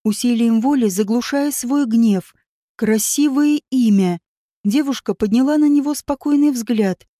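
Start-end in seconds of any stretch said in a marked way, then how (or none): 2.8-4.2 slow, with a smile, anger held back; slow smiling drawl. Acted. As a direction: draw it out with a forced smile. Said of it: "медленно и с улыбкой протянул он".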